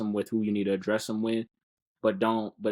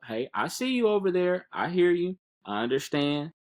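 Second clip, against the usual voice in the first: kind self-talk; 8 semitones higher than usual. Pretend. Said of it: "you need that second to just say".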